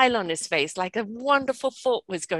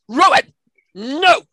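high, loud stern "Rowan, no"; loud no-nonsense grandmother; firm warning; 7 semitones higher, 10 dB louder, slower than usual. Retold or imitated. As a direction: stop the toddler cold. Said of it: "I'm going".

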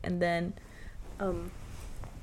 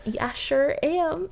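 higher, slow, smug "I sure am"; smug retort; 8 semitones higher, 5 dB louder, slower than usual. Retold or imitated. Student cheekily answers her old math teacher, slow and smug. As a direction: stretch out "Yeah, I sure am" higher and slower, teasing. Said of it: "I was like".

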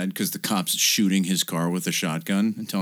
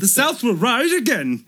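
high, slow cartoon drawl; the corrected Dudley take, slower; Dudley impression; 5 dB louder than usual. The right take of the brother's line, high slow Dudley voice. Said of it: "I was trying to do a Dudley do-right".

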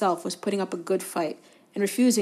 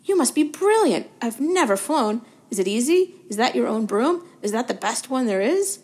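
put-on higher, louder, breathless boyish fan voice; eager young Colin; 4 semitones higher, 8 dB louder than usual. A narrator's reading. Colin bursts in to show Harry his photo, eager and high. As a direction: rush it out like an adoring kid.

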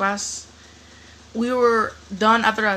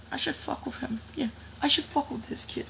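higher, softer mocking voice; imitated bully's thought; 4 semitones higher, 7 dB quieter than usual. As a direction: mimic a bully plotting to himself.

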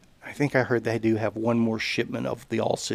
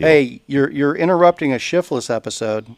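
loud, raised voice on speakerphone; calling out; 4 dB louder than usual. Real, not acted. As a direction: project over the phone. Talking to speakerphone caller.

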